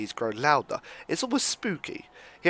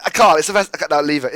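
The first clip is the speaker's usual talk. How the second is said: exasperated outburst; 7 dB louder, faster than usual. Real, not acted. Torn about rescuing the woman.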